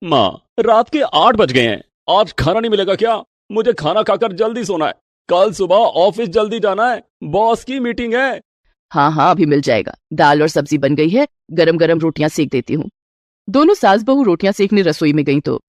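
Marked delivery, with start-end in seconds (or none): 0.0-8.4 a tired son wanting dinner early; son's voice. Acted. Son asks his mother for dinner, lightly voiced man. 8.9-12.9 a doting mother-in-law offering a gift. Acted. Mother-in-law gives her new bride a gold ring, lower voice.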